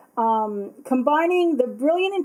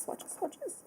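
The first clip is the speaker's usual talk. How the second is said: whispered sing-song; 7 semitones higher, 18 dB quieter than usual. Real, not acted. Humming to herself while working.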